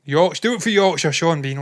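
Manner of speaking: rally them in broad Yorkshire; mock Yorkshire accent. Podcaster cheering for Yorkshire and Sean Bean, mock Yorkshire accent.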